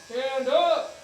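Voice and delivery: loud barked command; drill sergeant voice. Shown as a demonstration. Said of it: "Everybody practice a drill sergeant voice".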